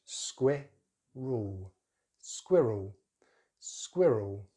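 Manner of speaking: squirrel as SKWIH-rul, short i; British pronunciation. Shown as a demonstration. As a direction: say squirrel with skwi as in squid. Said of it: "So British English".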